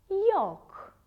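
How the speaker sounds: yoke called out high and loud; teacher's emphatic model yoke; loud model word. Shown as a demonstration. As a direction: ring out yoke for the whole class. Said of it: "The letter Y at the beginning".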